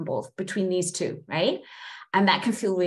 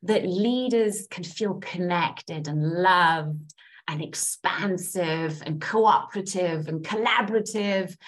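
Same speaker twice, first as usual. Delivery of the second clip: earnest guided affirmations, tapping point by point. Acted. Coach guiding a tapping group, earnest affirmation voice. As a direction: lead the group through self-love statements.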